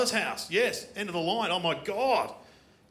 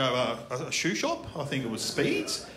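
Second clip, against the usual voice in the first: hesitant, halting answer with questioning lifts; meek reply; 3 semitones lower than usual. Acted. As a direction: answer the bully timidly, feeling your way. Acting his meek reply to the bully.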